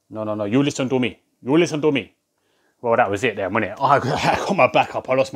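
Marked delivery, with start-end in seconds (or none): 0.1-2.1 lightly mimicked caller butting in; insistent cold caller. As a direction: cut in insistently, imitating the caller. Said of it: "he said".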